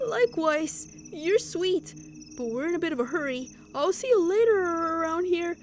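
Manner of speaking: lightly put-on, sociable girl's voice; a lightly voiced, friendly send-off; friendly neighbor sister. Sister saying goodbye to the new neighbor, lightly voiced and friendly.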